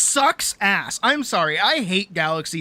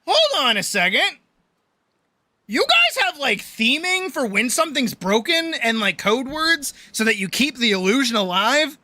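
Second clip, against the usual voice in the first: incredulous rant; 4 semitones higher than usual. Retold or imitated. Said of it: "And I'm like".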